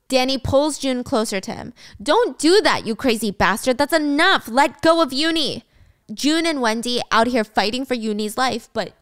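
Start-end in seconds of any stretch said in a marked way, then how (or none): 2.0-5.6 raised, urgent protest; a touch of outraged urgency; acted angry demand. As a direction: demand the hostage's release, mildly heated. Rescuer confronts Danny holding hostage.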